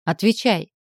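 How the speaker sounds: громкий резкий приказ; потребовать ответа, громче; требовательно. Acted. Требует ответа от Макса. (гневно требует)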